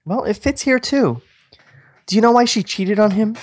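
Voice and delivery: man voicing Michelle, high; woman's voice. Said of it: "your girl voice".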